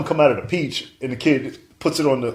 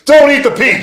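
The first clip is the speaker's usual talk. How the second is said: mock yell at the screen, higher and louder; retold yell; 11 semitones higher, 9 dB louder than usual. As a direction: shout a warning at the movie. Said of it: "I yelled it".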